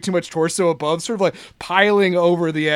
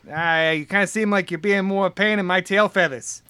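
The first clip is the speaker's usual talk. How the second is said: lightly voiced coach; a hint of gruff-talking coach accent; big coach accent. Guard fed up with visitor, light coach accent. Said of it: "to do the accent".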